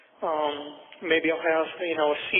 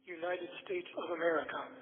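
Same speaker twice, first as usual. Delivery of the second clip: quiet, careful recorded answer; saying it on request; 12 dB quieter than usual. Real, not acted. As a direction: speak it clearly for the machine. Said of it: "After the tone, please say".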